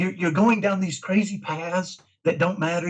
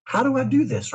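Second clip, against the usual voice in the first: mock question; 10 semitones higher than usual. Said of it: "in a spirit of love".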